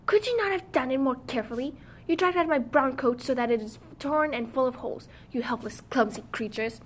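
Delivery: lightly voiced shrill little man scolding; dwarf scolding the girls in a shrill voice. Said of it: "he cried with his shrill voice".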